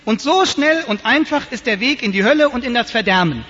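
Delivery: loud, brisk call down the nave; calling out to the church. Retold or imitated. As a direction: sing out the punchline to the whole church. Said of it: "rief er in die Kirche".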